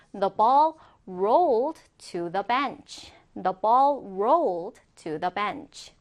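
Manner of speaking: slow, careful English words; slow model reading. Shown as a demonstration. Teacher reads a rolling ball example, slow model reading. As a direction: read it slowly enough to repeat.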